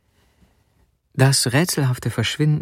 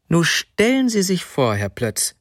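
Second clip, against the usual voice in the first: woman's high-pitched, eager announcement; excited news; 6 semitones higher than usual. Acted.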